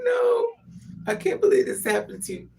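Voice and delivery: high, loud mock wail; retold crying. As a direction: re-enact a tearful, crying outburst. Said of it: "when I tell you I cried".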